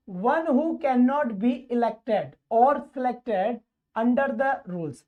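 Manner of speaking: very slow, word by word reading; deliberate teacher dictation pace. Shown as a demonstration. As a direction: spell the question out slowly for the class. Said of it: "teacher reads question slowly".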